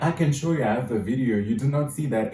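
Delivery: excited, incredulous retelling; retold disbelief. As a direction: act amazed that your friend missed it.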